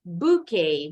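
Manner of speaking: bouquet said boo-KAY, T silent; English bouquet, last syllable KAY, no T. Shown as a demonstration. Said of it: "T-nya nggak bunyi".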